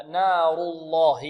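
slow "نار الله" with a thick, dark l in "الله"; heavy lam. Shown as a demonstration. Teacher demonstrating heavy lam, slow recitation. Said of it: "اللام في لفظ الجلالة تغلظ".

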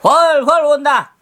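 farmer voice. Acted. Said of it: "무릎을 탁 치며 말했어요".

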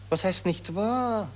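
high, loud, exasperated retort; a reporter loudly overrides the actress's denial; indignant retort. Acted. Reporter overrides her protest.

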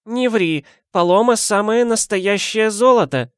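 put-on high, creaky-free old granny voice; old woman voice. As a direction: play the nosy old neighbour. Old woman defends Paloma.

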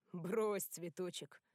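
a lightly voiced friendly big bear; good-natured bass. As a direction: rumble it out kindly, like a friendly monster. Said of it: "добродушно пробасил Рольф". (добродушным басом)

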